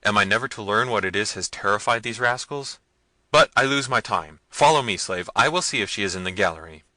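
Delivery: loud, irate command; impatient prince. A narrator's reading. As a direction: rail at the rascals and take charge.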